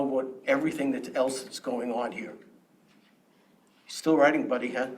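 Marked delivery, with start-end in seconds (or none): 3.9-4.9 sarcastic taunt. Real, not acted. Taunting board member who keeps writing.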